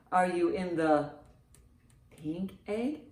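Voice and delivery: usual speaking voice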